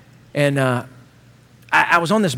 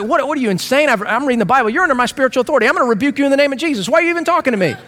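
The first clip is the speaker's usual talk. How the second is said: a touch of mock outrage, higher pitched; indignant; 6 semitones higher, much faster than usual. Young pastor bristling at the older lady, mock indignant. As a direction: play the offended know-it-all, half joking. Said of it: "And I was like".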